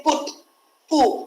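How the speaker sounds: "put" then "pu", leaning on the U; stress on U. Shown as a demonstration. Teacher showing students the stressed U in put, sounded out. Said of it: "the stress is given on U here".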